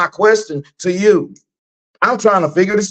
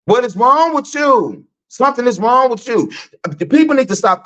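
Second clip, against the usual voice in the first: exasperated; 7 semitones higher than usual. Real, not acted. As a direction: scold them in disbelief. Exasperated ranting at followers.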